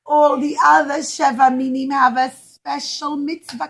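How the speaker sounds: a tearful, sobbing complaint; crying fig tree. Acted. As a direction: cry out that you're not special. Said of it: "the fig tree cried and he said".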